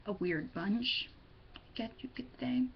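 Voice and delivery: quick unvoiced aside; whispered joke to viewers. Real, not acted. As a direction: toss it off in a whisper.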